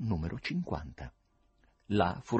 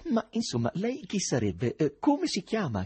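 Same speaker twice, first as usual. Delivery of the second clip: increasingly stern; 10 semitones higher than usual. A narrator's reading. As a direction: press for an answer with mounting severity. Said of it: "con modi sempre più severi". (domande insistenti, sempre più severe)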